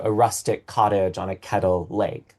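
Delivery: "rustic cottage on a kettle lake" with four marked stresses; four strong stresses. Shown as a demonstration. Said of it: "Those four strong stresses".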